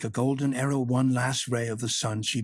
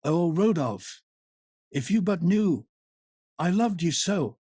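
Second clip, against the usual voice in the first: put-on woman begging her old lover, sighing; sighing longing; 6 semitones higher, 4 dB louder than usual. A narrator's reading. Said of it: "and she sighed".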